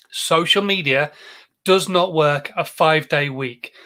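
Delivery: slow, measured delivery with a pause after "Social media"; slow, deliberate repeat. Real, not acted. Host lets the point sink in for viewers, slow and deliberate. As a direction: spell it out slowly, phrase by phrase. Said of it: "I want that to sink in".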